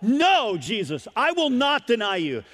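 no shouted very high and loud; preacher shouting Peter's denial; Peter's protest. Acted. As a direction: Peter insisting, almost pleading. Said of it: "He's saying".

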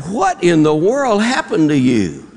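mock astonishment. Boss to bandaged worker, mock-astonished.

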